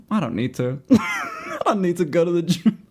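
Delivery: amused self-talk; half-laughing inner thought; chuckling to myself. Retold or imitated. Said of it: "that's exactly what I think in my head".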